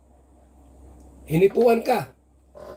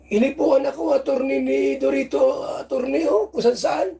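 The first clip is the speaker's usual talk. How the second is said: higher, hammed-up woman telling on him; mock complainant voice; 3 semitones higher than usual. Vlogger playing Beyonce telling the attorney, hammed-up higher voice. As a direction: play the coy accuser, pitched up.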